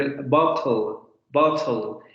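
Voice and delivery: "bottle" with a careful, clear t; British bottle. Shown as a demonstration. Teacher shows students the careful British "bottle". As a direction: say "bottle" with a crisp t, slowly. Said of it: "en el inglés británico es mucho más probable".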